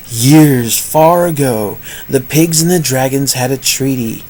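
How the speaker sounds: subdued, drawn-in narrator read; the voice he then drops as strange; muted storytelling tone; odd storyteller voice. Shown as a demonstration. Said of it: "I don't know why I'm talking like this".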